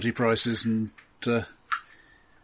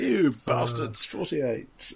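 bingo caller; much slower than usual. Pretend. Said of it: "very good bingo announcer".

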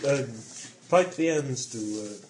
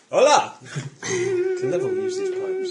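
put-on Spanish accent; slower than usual. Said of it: "the allegedly Spanish accent I'm doing now".

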